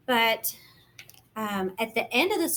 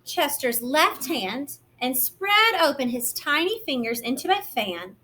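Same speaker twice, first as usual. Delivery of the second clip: gentle, lively picture-book narration; reading to children. A narrator's reading. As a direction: read it like storytime for little ones.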